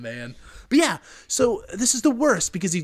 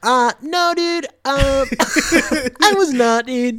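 mock defensive; 10 semitones higher, 5 dB louder than usual. Mock denial of being a jock.

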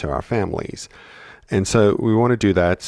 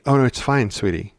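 dismissive adult; 4 semitones higher than usual. Retold or imitated. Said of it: "they'll say".

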